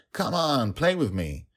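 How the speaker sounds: put-on a high child voice begging to play; little one tugging at her father; pleading child dragon. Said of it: "Dragon Little would say".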